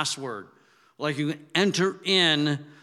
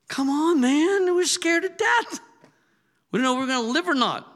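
high pleading mock protest; 12 semitones higher, 3 dB louder than usual. Disciples protesting to Jesus, high and pleading. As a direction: cry out high, scared and exasperated.

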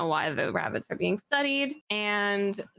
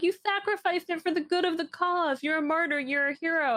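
a hint of a self-important activist, pitched higher; lightly hammed-up speech calling her a martyr; mock grand praise; 8 semitones higher than usual. Che praising Summer as martyr.

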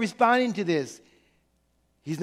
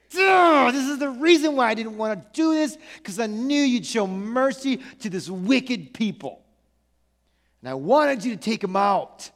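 temper tantrum. Acted. Jonah telling God why he didn't want to go, mild tantrum. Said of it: "Bit of a, again, temper tantrum".

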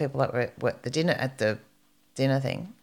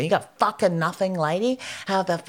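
higher-pitched retold tirade; angry swearing; 4 semitones higher than usual. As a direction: lay into the owner, swearing. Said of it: "I'm angry and I'm swearing".

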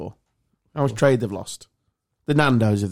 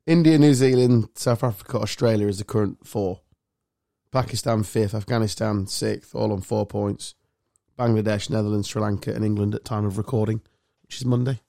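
talking clock; 4 semitones lower than usual. Acted. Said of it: "That was a bit official, wasn't it?".

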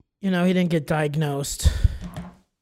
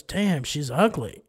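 slow grandpa verdict; 4 dB quieter, slower than usual. Retold or imitated. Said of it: "And then he goes".

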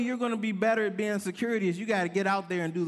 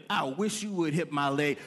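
mock yell; 6 semitones lower than usual. Daring drivers in parking lot.

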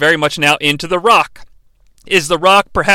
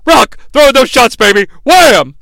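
excited cheering; 5 semitones higher, 5 dB louder than usual. Retold or imitated. Commentator cheering the Rock on.

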